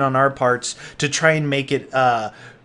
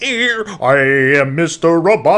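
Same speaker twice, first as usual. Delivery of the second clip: robot voice; 4 dB louder than usual. Retold or imitated. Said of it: "I'm like".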